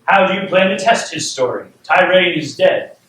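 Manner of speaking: acted royal objection; challenging king. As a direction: question the adviser as a storybook king. Plays sceptical king replying.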